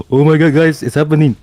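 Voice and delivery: high, loud excited imitation. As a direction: imitate a friend freaking out. Retold friend's excited outburst.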